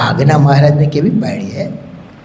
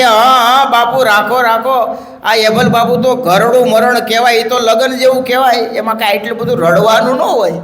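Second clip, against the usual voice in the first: higher, soothing master's voice, unhurried at first; calm a weeping old man like a gentle lord; consoling Maharaj; 8 semitones higher than usual. Acted. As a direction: Maharaj comforting the grieving Bapu, higher and soothing.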